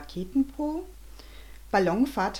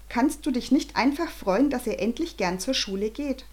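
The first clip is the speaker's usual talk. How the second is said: pleading mother; 4 semitones higher than usual. Acted. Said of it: "rief Arabella Vogel".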